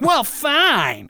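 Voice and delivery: high, exasperated giving-in; hammed-up, high-pitched concession; mock grudging surrender. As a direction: give in, imitating an exasperated father. Father gives in, retold.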